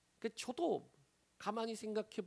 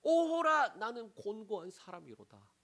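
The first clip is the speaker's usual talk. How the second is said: lament. Shown as a demonstration.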